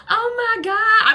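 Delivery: high, loud, slow squeal; mock gushing. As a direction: imitate an overexcited sister. Mimics gushing sister's reaction.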